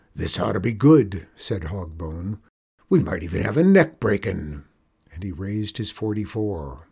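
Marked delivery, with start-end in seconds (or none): 0.1-1.3 louder, lightly voiced outlaw; gleeful outlaw boss. Outlaw boss expecting a spectacle, mild relish. 2.9-4.6 louder, lightly voiced outlaw; gleeful outlaw boss. Outlaw boss expecting a spectacle, mild relish.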